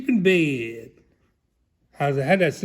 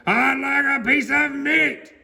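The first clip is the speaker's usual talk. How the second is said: higher, slow, lightly booming voice; booming Mister Noisy; 10 semitones higher than usual. Acted. A hint of Mister Noisy booming at Mister Bacon. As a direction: boom the order at the butcher. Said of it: "boomed Mister Noisy".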